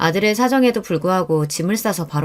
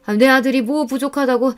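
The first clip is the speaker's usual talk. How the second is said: outraged mother; 7 semitones higher than usual. Acted.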